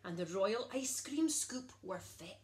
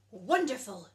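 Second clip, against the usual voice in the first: much louder delighted cry; excited; 9 dB louder than usual. A narrator's reading. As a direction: burst out with joy. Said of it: "said the cook, excited".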